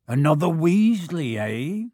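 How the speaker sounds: hearty giant voice; Hagrid voice. A narrator's reading. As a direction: greet him with a hearty chuckle. Hagrid greets Ron.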